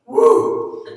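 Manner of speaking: high, loud whoop of joy; young man thrilled at the thought of preaching, whooping; excited cheer. Retold or imitated. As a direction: let out a delighted shout.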